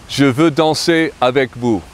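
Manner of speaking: je veux danser avec vous, stress on veux; French pronunciation. Shown as a demonstration. Teacher models the formal sentence, careful French. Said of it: "in the formal".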